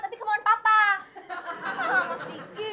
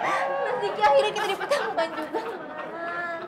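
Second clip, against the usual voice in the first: put-on gushing girl. Bella gushing over Diki.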